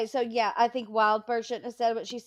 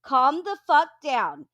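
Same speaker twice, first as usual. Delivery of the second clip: retold angry rant; 2 semitones higher, 4 dB louder than usual. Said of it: "That's what I kept saying in their chat".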